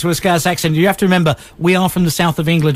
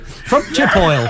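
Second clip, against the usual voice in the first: mock Yorkshire accent; much slower than usual.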